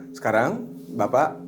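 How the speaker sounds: slow, measured guiding voice with long pauses; hypnotherapy suggestion. Shown as a demonstration. Hypnotherapist guides client through a flower garden, slow suggestion. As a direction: lead them slowly through an imagined scene. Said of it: "Di situ saya menyebutkan".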